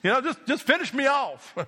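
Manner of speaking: a touch of fed-up pleading, acted; mild frustration. Moses begging God over the people he leads, mildly frustrated. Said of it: "he even got so frustrated".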